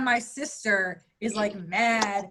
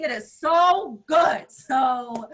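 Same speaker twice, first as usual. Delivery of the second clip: raving about catnip; 2 semitones higher, 6 dB louder, much slower than usual. Real, not acted.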